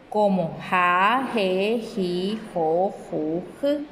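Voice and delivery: "ja, je, ji, jo, ju" with a breathy, aspirated h; aspirated syllables. Shown as a demonstration. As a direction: model the aspirated Guaraní h. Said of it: "Tiene sonido aspirado".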